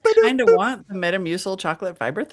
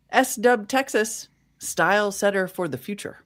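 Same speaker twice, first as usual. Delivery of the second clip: put-on old-time radio ad voice in mid-Atlantic accent; 2 semitones higher than usual. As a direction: read it like a thirties mid-Atlantic announcer. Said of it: "It's either mid-Atlantic ac-, accent or slightly British".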